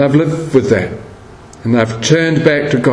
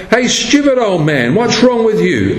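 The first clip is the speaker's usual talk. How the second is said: higher-pitched retold yell without extra volume; mock yell; 6 semitones higher than usual. Passer-by scolding the old man, mock yell. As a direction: imitate someone yelling in rebuke. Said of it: "and yelled".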